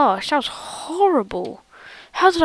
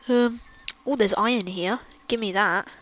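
whispering; 3 semitones lower, 8 dB quieter than usual. Real, not acted. Grabbing iron quietly.

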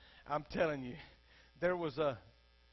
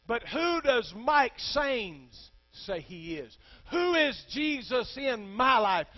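louder, higher, slow, voice catching; preacher near tears over his own faith; tearful preaching; 5 semitones higher, 8 dB louder, slower than usual. Real, not acted. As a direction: plead it as your own question. Preacher's personal question, choking up.

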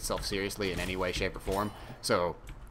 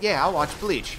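eager self-quote; 7 semitones higher, 5 dB louder than usual. Retold or imitated. Quoting his own eager decision.

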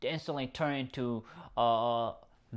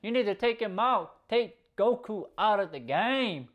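urging to finish him; 8 semitones higher than usual. Retold or imitated. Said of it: "Belmont's like".

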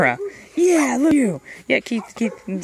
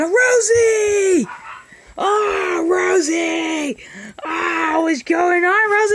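excited cry; 3 semitones higher, much slower than usual. Real, not acted. Excited greeting of pet dog.

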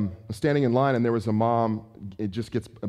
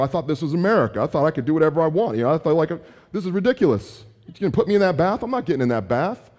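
put-on whiny kid; 2 semitones higher than usual. Son whines at his father about the bath, mock protest. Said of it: "kick and scream and be upset".

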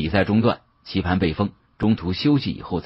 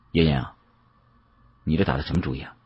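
stern, grim-faced; 4 semitones lower, 5 dB quieter, much faster than usual. Acted. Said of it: "沉着脸".

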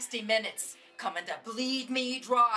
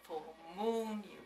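tender; 2 semitones lower, 4 dB quieter than usual. Acted. Grandma reminiscing tenderly.

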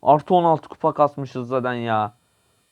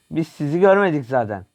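louder and higher; 4 semitones higher, 4 dB louder than usual. Pretend. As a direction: repeat it loud and higher, teasing. Sneaking past enemies, joking. (yüksek sesle, takılarak)

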